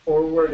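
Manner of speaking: "Forward" with the first R pushed; "Forward", R heavily sounded; overstressed R. Shown as a demonstration. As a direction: put too much stress on the R of "Forward". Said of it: "mucho estrés".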